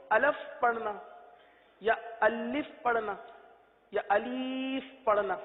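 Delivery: drawn-out mispronounced alif; wrong alif. Shown as a demonstration. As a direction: say الف with the wrong vowels, as a mistake. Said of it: "یہ غلط ہے". (غلط الف کا نمونہ)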